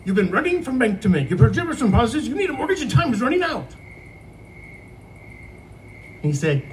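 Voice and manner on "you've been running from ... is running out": ad read pushed louder, the last line high and fast; faster and louder. Retold or imitated. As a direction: punch up the radio spot with more energy. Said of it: "read the beginning faster and louder".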